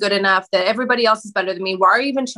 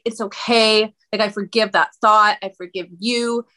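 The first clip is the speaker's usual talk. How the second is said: mildly tender, softening on the last words; gently forgive, easing off at the end; loving. Retold or imitated. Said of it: "I started loving on Regina".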